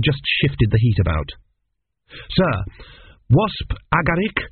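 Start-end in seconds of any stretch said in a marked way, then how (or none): 2.3-4.4 higher, careful student answering; prompt nervous student. Acted. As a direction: rattle off the answers, eager to please. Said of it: "said Tepic promptly".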